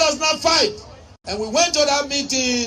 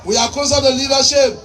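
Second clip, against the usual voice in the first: louder, driving each word home; loud emphatic repeat; 3 dB louder than usual. Shown as a demonstration. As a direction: hammer it to the crowd. Repeats line to his party.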